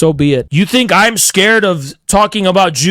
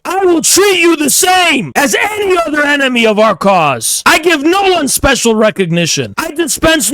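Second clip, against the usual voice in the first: shouting it out to enemies with a higher, hard-edged voice; raised shout; 5 semitones higher than usual. Real, not acted. Ranting at Zionist enemies, raised shout. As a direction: throw the threat at them at full voice.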